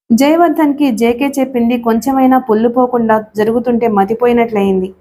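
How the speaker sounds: usual speaking voice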